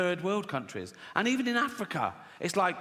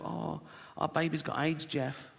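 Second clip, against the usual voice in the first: soft, understated grieving mother; mock sorrow; 6 dB quieter than usual. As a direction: break it quietly to a husband. Mother telling husband bad news.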